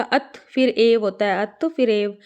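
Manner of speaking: अत and एव as two clear parts; word split demo. Shown as a demonstration. Teacher breaks the word for students, अत then एव. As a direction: say अत, then a separate long एव. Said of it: "साथ साथ जुड़ जाएगा".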